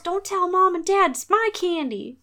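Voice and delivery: put-on high, loud whiny kid voice; a bratty kid clutching candy; bratty child. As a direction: whine it like a spoiled child.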